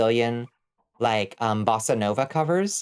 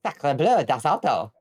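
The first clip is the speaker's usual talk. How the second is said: sacre bleu then das Auto in a hammed-up German accent; a silly Franco-German accent drifting into German; mock French-German accent; 3 semitones higher than usual. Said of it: "My outrageous accent is getting away from me".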